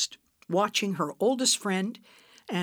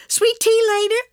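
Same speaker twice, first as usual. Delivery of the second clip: much higher and louder, still giggling; laughing; 9 dB louder than usual. Acted. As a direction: offer it through laughter.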